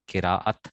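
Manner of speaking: "قراءت" as ke-raa-at; model pronunciation. Shown as a demonstration. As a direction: sound all three syllables of "قراءت". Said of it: "قراءت لفظ ہوتا ہے".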